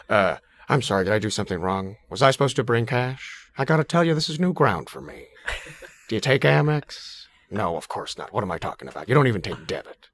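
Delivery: a light relaxed-throat Albert Brooks, fretting; nervous buyer rambling apologetically; Albert Brooks impression. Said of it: "Albert Brooks trying to buy cocaine".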